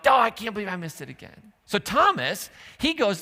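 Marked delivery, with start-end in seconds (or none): 0.1-1.5 quick exasperated groan at yourself; self-irritation. Retold or imitated. Driver annoyed at himself, quick and exasperated. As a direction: kick yourself. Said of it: "you get irritated with yourself".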